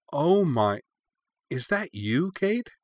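rising, high delighted question; light up at the old photo. A narrator's reading. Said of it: "delight in her voice".

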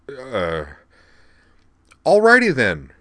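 flustered stammer jumping high and loud. Acted. Devlin flustered by Rena's teasing, stammering high and loud. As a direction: blurt it out, embarrassed.

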